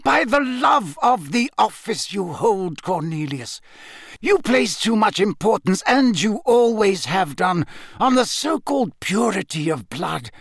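commanding, urgent oratory; voice rising. A narrator's reading. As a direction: drive each point home with conviction. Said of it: "his voice rising now".

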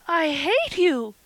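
high, loud, drawn-out outburst; slow, loud cry of rage; choked angry cry. A narrator's reading. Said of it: "she cried in a choked voice".

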